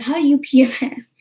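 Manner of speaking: incredulous question broken by a laugh; laughing, mocking disbelief. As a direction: laugh at how absurd the question is.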